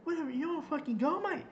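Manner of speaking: high, loud jeering insult; mocking yell, high and loud; retold taunt. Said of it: "this guy just came out and said".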